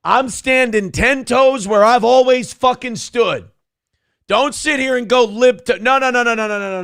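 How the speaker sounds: fired-up denial, pitch climbing on the nos; heated rant. Real, not acted. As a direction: push back hard, voice rising. Angry rant at liberal label.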